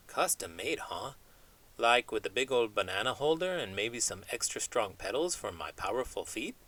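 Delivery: chatty cartoon chimp dreaming big, not far from own voice; lightly voiced chimp. Chimp puppet chats with host.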